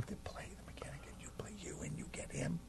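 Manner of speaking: fast unvoiced whisper aside; scene: producer quietly pitching the scene, fast whisper. Real, not acted.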